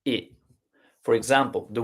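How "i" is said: tight, closed e for "I"; closed e sound. Shown as a demonstration. Teacher showing the acute accent sound, closed e. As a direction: say "I" as a short closed e, not open. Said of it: "acute accent doesn't".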